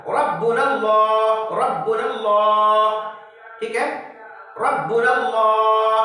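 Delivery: रब्बुनल्लाह slow, low, heavy rounded L; full-mouth Rabbunallah. Shown as a demonstration. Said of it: "गोल करके अल्लाह बोला".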